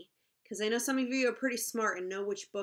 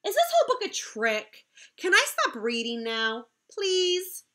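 mock pleading; 8 semitones higher, 5 dB louder than usual. Reader begs to stop.

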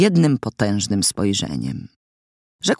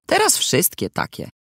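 charred voice. A narrator's reading. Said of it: "rzekła ona głosem zwęglonym".

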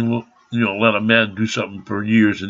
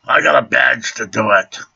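heated quote. Retold or imitated. Retelling the heated words from the standoff with the officer, a mock yell. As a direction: throw the words back at him in a mock yell. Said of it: "'Cause I said".

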